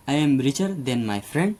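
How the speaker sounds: very slow, word by word example sentence; slow dictation. Shown as a demonstration. Teacher dictating an example to students, very slow. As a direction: spell it out slowly for the class. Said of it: "तो ER लग जाएगा।".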